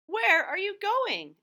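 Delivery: a curious seal calling up; high drawn-out question; Seely Sally's voice. Acted. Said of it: "asked Seely Sally".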